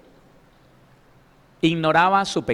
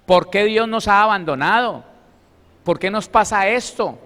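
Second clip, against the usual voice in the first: complaining whine; 5 semitones higher, 5 dB louder than usual. Acted. Voicing complaining believers.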